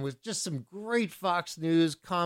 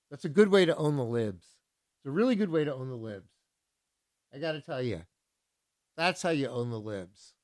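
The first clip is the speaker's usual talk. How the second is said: dry mock approval; sarcasm; 2 semitones lower than usual. Real, not acted. DJ mocking Trump supporters, dry sarcastic approval. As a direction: say it like you mean the opposite.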